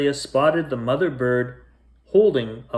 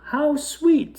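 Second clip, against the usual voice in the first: charmed. Acted. Mother charmed by robins.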